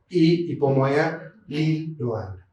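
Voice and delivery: Berberis Lil Loana spelled out slowly, each syllable clear; slow careful naming. Shown as a demonstration. Teacher reading the species name slowly to students, careful pronunciation. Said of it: "La doctora Catani hizo un trabajo".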